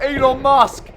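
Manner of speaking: loud, high holler with the last word stretched; mock triumphant shout. Commentator voicing Matt sending it skyward, mock triumphant shout. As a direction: bellow it slowly like a huge boast. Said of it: "He's like".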